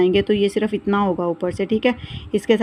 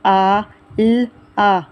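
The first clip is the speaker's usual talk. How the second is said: spelling out letters; 4 dB louder, much slower than usual. Shown as a demonstration. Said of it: "ये भ बना हुआ है".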